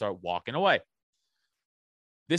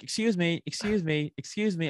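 lightly voiced higher-pitched insistent woman; neighbor's wife; 5 semitones higher than usual. Older neighbor interrupting the sign-thrower, imitated insistent call. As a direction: lightly imitate a wife repeatedly seeking attention.

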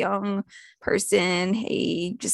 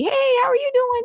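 much higher, bright hello; chirpy greeting. Retold or imitated. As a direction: sing out a friendly good morning. Cheery greeting to cold coworker.

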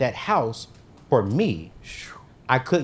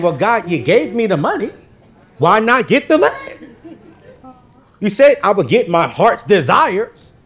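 mock whiny plea; 9 semitones higher, 9 dB louder than usual. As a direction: beg God like a spoiled kid. Retold pleading with God.

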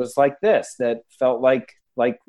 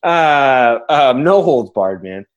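talking through a burp; words pushed out on a burp; 3 semitones higher, 6 dB louder, slower than usual. Real, not acted. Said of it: "Sorry, I'm gonna talk through a burp".

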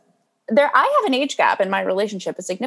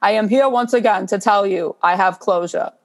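mock Bernie meme voice; 3 semitones lower than usual. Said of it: "It was like".

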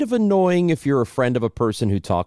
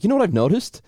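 higher-pitched, friendly lead-in to feedback; light, joking approach; 10 semitones higher, faster than usual. Acted. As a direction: bring it up lightly, as if amused. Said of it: "you can laugh about it when you're saying it".

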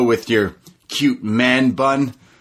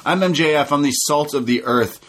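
imitating MJF; 4 semitones higher than usual. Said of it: "He says".

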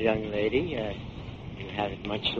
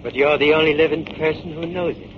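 loud, cold threats; bully her into driving faster; menacing threat; 4 dB louder than usual. Acted. Killer threatening his captive at gunpoint, menacing.

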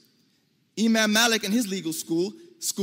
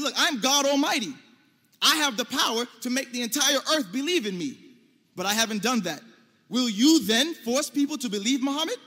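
paraphrasing God; 4 semitones higher, 3 dB louder than usual. Pretend. Voices God speaking to prophet.

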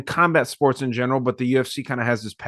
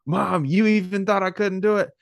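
mock triumphant yell; 8 semitones higher than usual. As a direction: crow it at mom like the winner. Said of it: "he's like".

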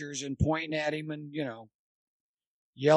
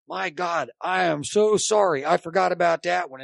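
mock yelled apology, slightly louder; retold yelling back; 2 semitones higher, 5 dB louder than usual. Umpire yelling back at the coach in a mock argument, mildly raised voice. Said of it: "and he's yelling back".

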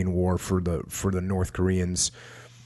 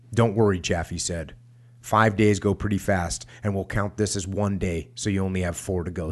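measured, emphatic read-aloud; book narration. A narrator's reading. Podcast host reads a war memoir to listeners, measured narration. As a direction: read it out firmly, pausing between sentences.

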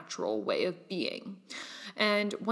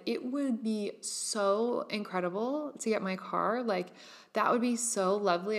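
dreamy ease. Retold or imitated. Imagining the new car, relaxed dreamy ease. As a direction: savor it like a lovely daydream. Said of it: "Whereas if I had said".

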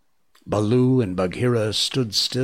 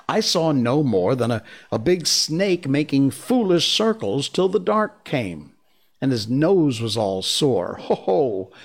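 put-on boyish scoffing; 7 semitones higher, 5 dB louder than usual. Mowgli scoffs at the snake.

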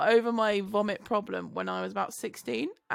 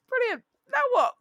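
exasperated yell. Retold or imitated. Retold exasperated exclaim, shouted.

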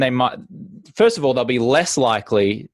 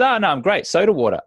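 cool breezy refusal; 7 semitones higher, faster than usual. Retold or imitated. George Clooney refusing cool.

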